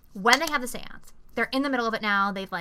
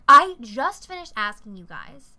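slow, louder imitation of indignation; outraged; 6 dB louder than usual. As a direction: spell it out like a fed-up friend. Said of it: "outrageously pissed off".

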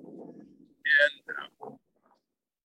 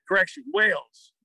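higher-pitched correction call; retold announcer's correction; 6 semitones higher than usual. Starter fixing the player's home country, announcing a correction.

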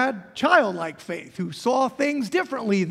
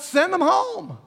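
yelling out; 7 semitones higher, 3 dB louder, slower than usual. Retold or imitated. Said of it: "another disciple yells out".

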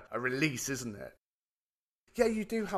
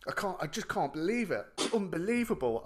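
a touch higher, marvelling; mild retold astonishment; dad still stunned on the phone; amazed dad; 6 semitones higher than usual. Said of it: "he goes".

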